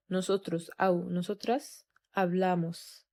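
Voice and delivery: slow, clear conjugation drill. Shown as a demonstration. Spanish teacher drilling nosotros hablamos, slowly. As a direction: pronounce each form carefully for students. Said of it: "هننطقهم تاني".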